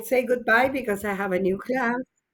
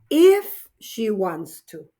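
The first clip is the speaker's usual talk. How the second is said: if stressed, said slowly; 2 semitones lower, slower than usual. Shown as a demonstration. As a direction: lean on the word if. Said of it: "because I'm saying if she wants to".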